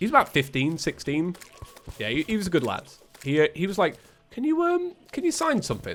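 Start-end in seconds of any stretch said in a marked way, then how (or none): 4.3-6.0 feeble, thin, very high put-on little voice. Quoting a teenage lad asking for a signature: weak, thin voice. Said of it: "I don't know why I gave him a weaker voice then".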